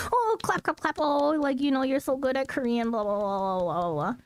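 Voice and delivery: high, mock-impressed gushing; high sing-song flattery; gushing praise. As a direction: gush like a patronising fan. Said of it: "be like".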